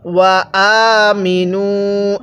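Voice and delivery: ওয়া আমিনু recited slowly, the vowel after মি drawn out one alif; slow tajweed chant of আমিনু; Quranic recitation. Shown as a demonstration. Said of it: "পেশের পরে ওয়াও সাকিন থাকলে এক আলিফ টানতে হয়".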